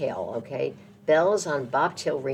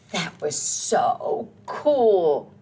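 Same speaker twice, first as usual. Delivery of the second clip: happy Mister Horse; 5 dB louder, much slower than usual. Acted. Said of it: "says happy Mister Horse".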